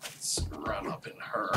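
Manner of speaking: slow breathy whisper. Real, not acted. Sneaking into the house.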